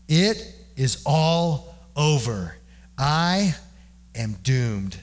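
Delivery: slow, weighty pronouncement with long pauses; understated despair, broken into slow pieces; torn-apart prophet. Acted. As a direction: let each phrase land like a verdict. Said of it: "was torn apart".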